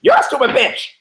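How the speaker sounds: very high parrot squawk; high-pitched parrot voice. Acted. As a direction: screech it out like a talking parrot. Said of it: "parrot goes".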